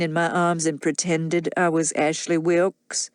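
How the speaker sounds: put-on a drunk man confessing jealousy; bitter drunk man. Rhett's drunken accusation.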